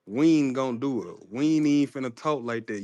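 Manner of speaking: Mississippi contractions run together; slurred Southern "we ain't"; Southern dialect. Shown as a demonstration. Caller giving examples of his home speech, Southern dialect. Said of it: "in southern dialect".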